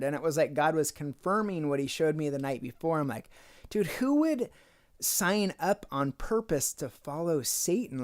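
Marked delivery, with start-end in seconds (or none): 3.7-8.0 higher, incredulous burst on "Dude"; recalled amazed outburst; disbelief. Retold or imitated. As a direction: ask it like you can't believe anyone would. Retelling his own disbelief.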